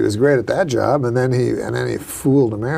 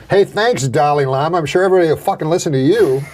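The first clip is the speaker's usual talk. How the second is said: sarcastic thanks, raised at the start then rushed; mock grateful sarcasm. Comic answering the Dalai Lama's statement, mock sarcastic. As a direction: toss out fake thanks, hurrying the end.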